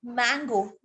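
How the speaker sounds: मैंगो starting straight on m; correct m onset. Shown as a demonstration. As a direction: say मैंगो with no vowel before it. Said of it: "ऐसे तो नहीं बोलते हम".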